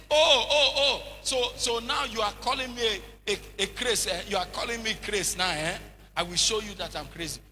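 loud, offended rant; mock offended threat. Person insulted by "are you crazy" threatening back, loudly offended. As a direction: huff up and threaten.

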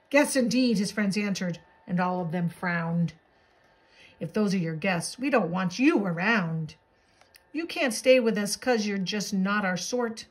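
lilting rhymed picture-book narration; animated bedtime-story reading; storybook read-aloud. A narrator's reading. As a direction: read a rhyming tale to children.

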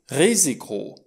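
"Risiko" with a long stressed first i. Shown as a demonstration. Teacher gives an example of long I, "Risiko" with drawn-out first syllable. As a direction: stretch the start of "Risiko", "riii-ziko". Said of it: "avem lung la sfârșit de silabă accentuată".

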